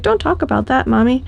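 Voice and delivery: mock plea from the whining dog; dog's voice. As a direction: speak for the dog, half-joking. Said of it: "She's like".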